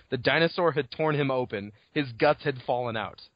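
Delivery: lightly read-aloud book passage; a mild story-reading voice. Acted. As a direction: read the excerpt with relish. S0 reads novel passage aloud.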